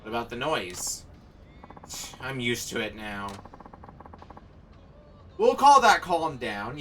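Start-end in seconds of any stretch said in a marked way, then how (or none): 5.4-6.8 louder, slower and higher; loud, drawn-out declaration; loud slow call. Real, not acted. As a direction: call it out like a verdict.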